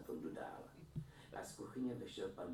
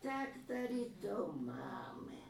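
exclaiming; 5 dB louder, much slower than usual. A narrator's reading.

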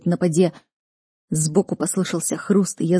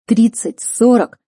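higher, louder questions, climbing; alarmed guessing; 5 semitones higher, 6 dB louder, slower than usual. A narrator's reading. Man seeing the horde of corpses, alarmed questions. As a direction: count aloud in mounting alarm.

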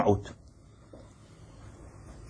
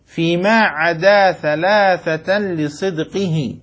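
يلقي بيت النظم ببطء وتأنٍ; رتّل البيت كأنك تحفّظه للطلاب; إلقاء نظم بطيء; 2 semitones lower, slower than usual. Acted. Teacher recites the verse again. (إنشاد متأنٍّ لبيت من النظم)

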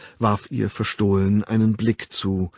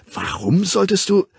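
high, louder irritated question; piqued, raised voice; slightly annoyed; 11 semitones higher, 5 dB louder than usual. A narrator's reading. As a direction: challenge him with a touch of annoyance. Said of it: "In ihrer Stimme schwang leichte Verärgerung mit".

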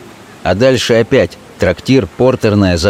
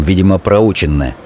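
plain reading voice

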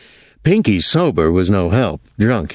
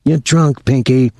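higher-pitched, disgusted accusation; 6 semitones higher, 4 dB louder than usual. A narrator's reading. Thomas to drunken Pinky, disgusted. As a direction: dismiss him with open disgust, pitch raised. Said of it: "Thomas said disgustedly".

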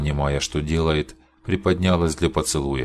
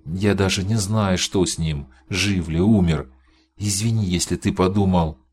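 higher, pained and tearful; tragic heroine sorrow; 3 semitones higher than usual. Acted. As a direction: plead through grief for her husband. Простонала она.

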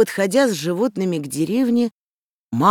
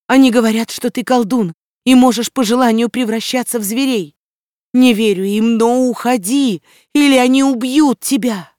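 loud, higher desperate plea; mother crying out; 7 semitones higher, 6 dB louder than usual. A narrator's reading. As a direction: beg him to flee, frantic. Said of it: "подбежала к стаду с криком".

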